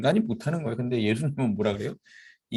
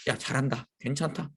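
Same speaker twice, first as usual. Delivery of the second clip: put-on softer, kindly cheering the kids on; softly encouraging children in church; gentle encouragement; 4 dB quieter than usual. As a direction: praise the running children gently. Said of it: "계속 이렇게 좀 격려해주고".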